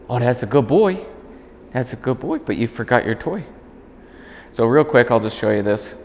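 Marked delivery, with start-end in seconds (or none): 0.1-3.4 praising the dog. Real, not acted.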